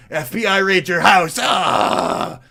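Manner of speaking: high, loud hammed-up alarm; mock shout. Mocking those who call in the FBI, mock panic shout. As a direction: yell it like a cartoon panic.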